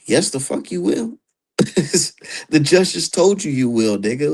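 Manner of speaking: loud, high-pitched mock retort; mock comeback. Promoter mocking the fighter who refuses, loud retort. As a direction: snap back at him, half-laughing.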